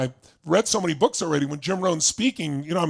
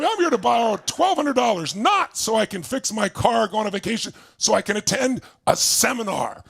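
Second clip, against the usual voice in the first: enthusiastic pitch; 5 semitones higher than usual. Retold or imitated. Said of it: "I was so enthusiastic".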